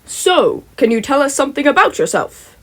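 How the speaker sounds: lightly voiced beaming hero; All Might, smiling. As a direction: ask it with a broad smile. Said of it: "with his usual wide smile".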